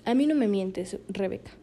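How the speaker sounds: severe, grave father. Retold or imitated. Father warns daughter not to lie, mildly severe imitation. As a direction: quietly imitate a grave, stern dad. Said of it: "con voz severa, ¿no? O sea, grave".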